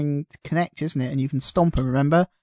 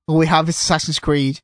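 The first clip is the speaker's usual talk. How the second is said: mock-desperate, louder marketing voice; panicked marketer; 4 dB louder than usual. Someone in marketing scrambling for anything to announce, mock panic. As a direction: blurt it out like a marketer grasping at straws. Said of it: "someone in marketing going".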